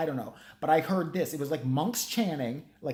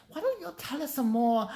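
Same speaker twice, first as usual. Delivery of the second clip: much higher mock host voice; radio host; 11 semitones higher than usual. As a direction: squeak out the host's question. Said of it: "the college idiots".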